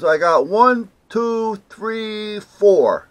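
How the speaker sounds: loud, high count, dropping on the last; retold counting aloud. Paint clerk counts cases for caller, loud and high. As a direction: call out each number like a clerk tallying stock.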